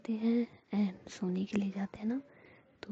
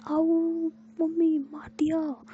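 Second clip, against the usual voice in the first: ouch cry; 8 semitones higher, 6 dB louder, much slower than usual. Acted. Pinched hard, cries out.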